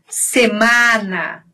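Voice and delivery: "semana" with open, un-nasal a; Spanish open vowels. Shown as a demonstration. Teacher demonstrating Spanish, open oral a. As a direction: open wide the a of "semana", none through the nose. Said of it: "eu falo tudo aberto".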